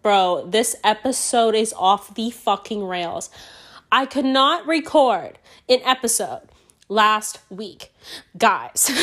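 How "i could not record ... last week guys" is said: slow, hammed-up Italian accent; badly faked Italian, word by word; mock Italian accent. Host redoing her excuse to listeners, mock Italian accent. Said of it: "Italian for you".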